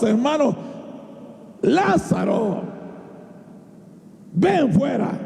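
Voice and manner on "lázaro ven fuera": drawn-out, commanding call; voz alzada. Shown as a demonstration. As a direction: call him out of the tomb, stretching the name. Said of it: "Tiene que alzar la voz". (llamado en voz alta y alargado)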